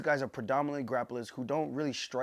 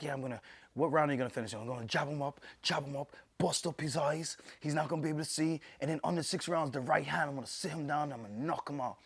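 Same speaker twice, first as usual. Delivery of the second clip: lightly imitated British accent, pitched up; 3 semitones higher than usual. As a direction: do a British fighter's quick boast. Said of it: "the British accent".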